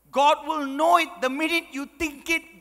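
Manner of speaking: stern warning. Retold or imitated. Mother's stern warning, first take.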